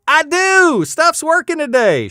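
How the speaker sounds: high, delighted exclamation; excited. Real, not acted. Host finds the wheel is pulled up, excited. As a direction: crow happily that it works.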